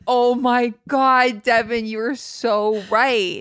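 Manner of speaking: slow, drawn-out mock amazement; exaggerated, drawn-out validation; gushing agreement. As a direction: side with your friend, stretching every word. Acted gushing agreement in imagined sisterhood.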